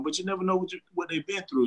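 muffled through a mask; talking behind a mask; behind welding mask. Real, not acted. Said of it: "I don't know if y'all can hear me with the mask on".

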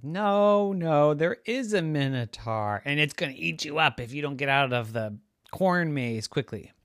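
put-on teasing kid, trying to scare; spooky teasing. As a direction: spook her on purpose. Brother spooks sister.

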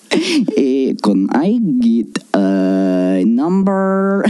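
put-on drifting Eastern European accent, slowly ordering fast food; a slipping mock Russian accent, hesitant. Ordering at McDonald's in a slipping Eastern European accent. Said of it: "order from McDonald's with that voice".

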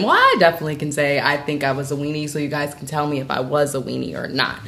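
talking through hiccups; hiccuping. Real, not acted. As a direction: hiccups breaking the words. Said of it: "Sorry, I have hiccups".

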